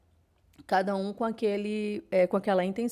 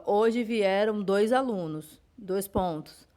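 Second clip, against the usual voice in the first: dictating aloud; slower than usual. Shown as a demonstration. Teacher dictating an example sentence to her students, slow and clear. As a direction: read it out word by word, like dictation to a class. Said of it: "eu digo".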